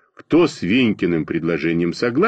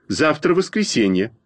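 indignant protest, raised pitch; 8 semitones higher than usual. A narrator's reading. Schoolboy protests that tomorrow is a day off, indignant. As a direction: object indignantly in a higher voice. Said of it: "возмутился я".

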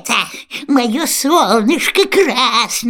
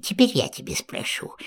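whispered threat; 7 semitones lower, 7 dB quieter, faster than usual. Acted. Baba Yaga lowers voice.

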